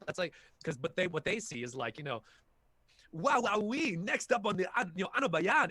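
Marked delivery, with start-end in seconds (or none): 3.1-5.7 put-on high, big and colourful parody of a Filipino accent; mock Filipino accent, hammed up into caricature; exaggerated Filipino accent. Actor mocks what directors hear, exaggerated Filipino accent. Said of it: "It's, like, super big and, and colorful".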